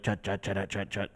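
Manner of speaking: short, soft, separated "chut, chut, chut"; starty-stoppy staccato. Shown as a demonstration. Describing the band's quick riffs, "chut" said staccato. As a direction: stop dead after each "chut". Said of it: "starty stoppy".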